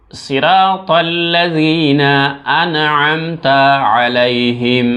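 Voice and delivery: slow, drawn-out recitation; slow melodic tilawat. Shown as a demonstration. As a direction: chant the verse slowly. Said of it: "আমি পড়ি, একবার শুনেন".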